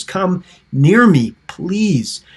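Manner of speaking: high, slow, drawn-out entreaty; acted pleading. Preacher voices Joseph calling his brothers closer, pleading.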